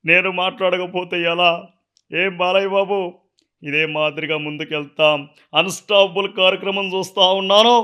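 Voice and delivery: a light take on Chandrababu's speech; Chandrababu impression. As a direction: bless the host like an elder leader. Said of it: "Chandrababu సార్ది imitate చేస్తా".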